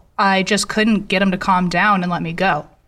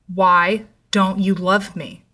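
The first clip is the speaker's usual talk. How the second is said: slow, emphatic retold yell at normal volume; mild mock yell; much slower than usual. Ex-boyfriend repeats his question to her, restrained slow yell. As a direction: draw each word out insistently, only hinting at yelling. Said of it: "this time yelling".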